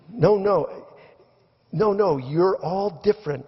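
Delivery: high, exasperated no no no; frustrated. Retold or imitated. Brian corrects the crowd, mock frustrated and high. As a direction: push back in mock frustration. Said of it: "says Brian, frustrated".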